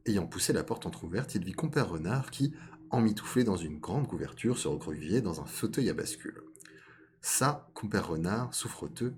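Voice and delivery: measured storytelling read; story narration. A narrator's reading. Storyteller introducing fox and rabbit to listeners, measured narration. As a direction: narrate a fable at an unhurried, even pitch. Reads a fable aloud.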